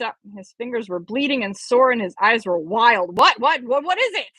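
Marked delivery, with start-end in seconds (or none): 3.2-4.3 startled questions. Acted. Professor startled, eyes wild.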